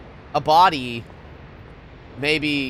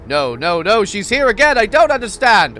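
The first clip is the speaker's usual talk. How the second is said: panicked; 6 semitones higher, 7 dB louder than usual. Real, not acted. Panicking at the game.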